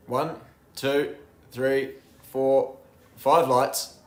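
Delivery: building countdown. Real, not acted. Counting the start lights.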